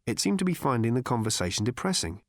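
ordinary delivery

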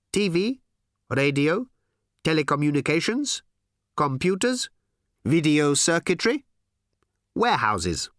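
high, loud, odd alien drone. Acted. Aliens to Tricia, high odd voice. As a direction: speak as a strange eager alien.

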